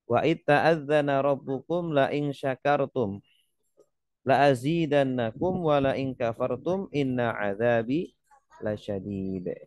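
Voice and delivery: chanted Arabic verse, measured and melodic; Quran recitation. Shown as a demonstration. Preacher reciting a verse to the congregation, chanted.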